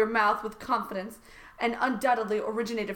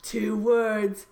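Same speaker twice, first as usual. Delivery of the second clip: lightly hammed-up boast; Donald Trump; 3 dB louder, much slower than usual. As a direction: stretch the punchline in a mock politician voice.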